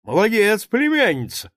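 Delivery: high, loud cheering praise; excited praise. A narrator's reading. Uncle cheers his niece's toast, excited and high. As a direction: praise her with delight.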